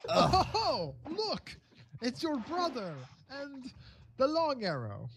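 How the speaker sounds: theatrical, pleased greeting; delighted host. Acted. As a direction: spot old friends arriving and announce them. Game master voices greeting host.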